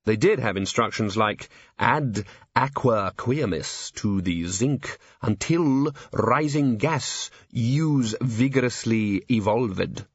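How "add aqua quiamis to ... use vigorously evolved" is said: put-on old textbook voice. Quoting an old chemistry manual.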